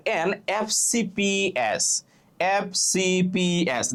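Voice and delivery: "এফ সি পি এস" said slowly, letter by letter; slow demo of "এফ সি পি এস", vowel first in "এফ"; spelled-out initials. Shown as a demonstration. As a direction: space out "এফ সি পি এস", each letter name stretched. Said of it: "দেখো উচ্চারণটা কি করতেছো?".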